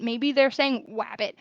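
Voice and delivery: wabbit with a W instead of R; child's wabbit. Shown as a demonstration. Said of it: "that er sound for rabbit".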